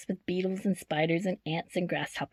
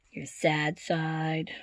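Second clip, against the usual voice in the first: sad; 3 semitones lower, 4 dB quieter, much slower than usual. Acted. Reading emotion words expressively.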